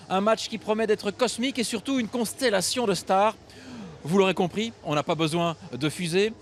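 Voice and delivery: measured TV presenter narration; scripted show intro. Acted. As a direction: set up the show like a storyteller. Host reads scripted show intro.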